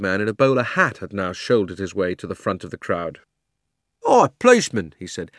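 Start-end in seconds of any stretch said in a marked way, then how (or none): 4.0-4.9 high, loud hail; hailing cabby. A narrator's reading. Red-faced cabby hailing the policeman, high and loud. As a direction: call out across the crowd.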